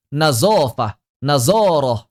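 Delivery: "Nazofah, nazoroh" with buzzing z; zo read as zai. Shown as a demonstration. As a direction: stretch the stressed middle of "nazoroh", z not th. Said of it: "Zo ini dibaca zai terus".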